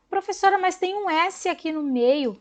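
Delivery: a hint of a curious child; a pupil's question. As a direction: mimic a puzzled pupil asking the teacher.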